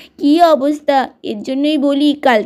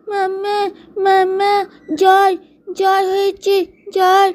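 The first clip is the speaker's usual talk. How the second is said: put-on higher, feeble child calling mamma; sick child whimper; 4 semitones higher than usual. Feverish little one telling mother, weak whimper. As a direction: sound small and feverish.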